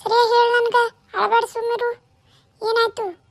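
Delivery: worried mother-in-law raising her voice; urgent demand. Acted. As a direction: press her hard to just say it. Mother-in-law demands answers on phone.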